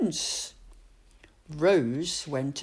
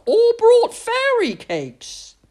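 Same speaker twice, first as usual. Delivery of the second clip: put-on higher, slow, wondering old man; old man's voice; 8 dB louder, slower than usual. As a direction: savour it slowly. Old man muses to himself.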